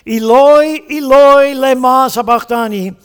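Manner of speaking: loud Galilean Aramaic cry from the cross. Shown as a demonstration. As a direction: call out Eloi, Eloi, lema sabachthani like the dying Jesus. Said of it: "The words from the lips of Jesus".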